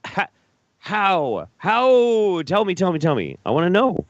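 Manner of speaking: high, hammed-up begging for answers; exasperated pleading. Demands an example in mock desperation.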